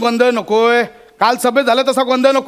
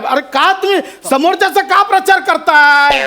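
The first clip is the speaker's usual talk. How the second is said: higher, slow indignant protest; exasperated outburst; 5 semitones higher than usual. Acted. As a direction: drag the question out in exasperation. Angry at wrong name. (वैतागून, चिडून)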